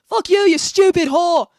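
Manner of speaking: very loud, high, drawn-out mock yell; imitated angry outburst. Streamer mimicking the chatter's violent mood swing, angry yell. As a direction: flip into a slow, shouted tantrum. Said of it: "His mood swings are so violent".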